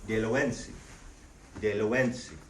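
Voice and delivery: Deloensi, nasal en, stress on the second-to-last vowel; Lenape phrase model. Shown as a demonstration. Teacher models my name is for the class. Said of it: "My name is".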